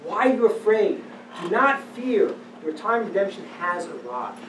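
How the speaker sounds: God calling out to frightened Israel, loud and reassuring; God comforting. Acted. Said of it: "And God will say to them".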